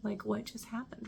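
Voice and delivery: softly awestruck retold reaction; quietly amazed, reliving the moment; hushed awe. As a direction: drop softly, as if stunned by what you saw. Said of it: "in awe of this moment".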